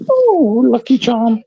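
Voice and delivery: slow squeaky high tease; drawn-out high sing-song; high teasing voice. Pretend. Teasing Lucky Charm in high voice.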